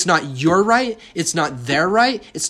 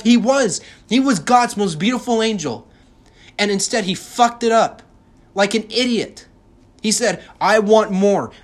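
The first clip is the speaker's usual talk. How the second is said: worked-up rant, higher and louder; massive rant; 6 semitones higher, 4 dB louder than usual. Real, not acted. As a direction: let the rant boil over and keep it loud. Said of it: "Let me just go on a massive rant".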